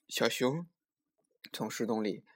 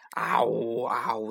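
slow, drawn-out "a-woo" roar; tiger's howl; 3 dB louder, slower than usual. A narrator's reading. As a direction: imitate a tiger howling slowly. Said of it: "啊呜啊呜的叫声".

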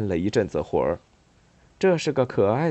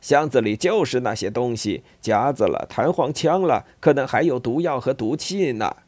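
Uncle Analdas; 2 semitones higher than usual. Acted. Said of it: "他宣布".

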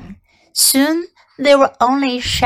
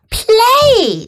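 twitchy squeaking rat voice; 12 semitones higher, 4 dB louder than usual. Acted. Rat scoffs at the word.

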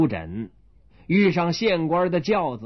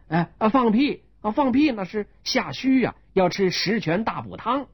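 higher, earnest surprise then advice; much higher innocent doctor; puzzled doctor; 7 semitones higher than usual. Acted. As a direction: take the insult as a symptom. Doctor prescribes for insult.

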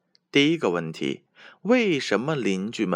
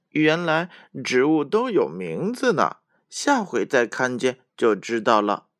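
squirrel voice; 4 semitones higher, 3 dB louder than usual. Acted. Little squirrel speaks.

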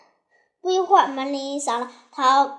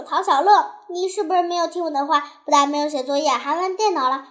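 raised voice; 2 semitones higher, 3 dB louder than usual. Acted. Mother catching child who played computer, raised voice. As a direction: call out the name, then accuse. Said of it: "就大声说".

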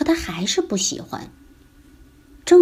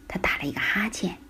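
yawning; 7 dB quieter, faster than usual. A narrator's reading. Mother yawning.

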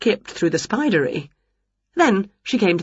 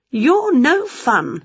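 sulky; 7 semitones higher, much slower than usual. Acted. Winnie sulking.

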